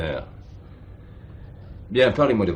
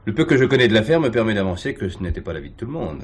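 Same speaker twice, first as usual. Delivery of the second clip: fast and louder, cutting in; brisk objection; 4 semitones higher, 5 dB louder, faster than usual. Acted. Commissaire contradicts the chaplain, brisk firm objection. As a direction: push back quickly and firmly.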